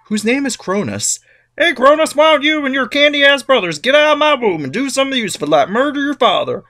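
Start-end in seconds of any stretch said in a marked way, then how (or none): 1.6-6.6 high, pushy nagging mother; Gaia voice. Retold or imitated. Gaia nagging son Cronus to kill his father. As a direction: goad him like a fed-up mom. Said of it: "tells one of them".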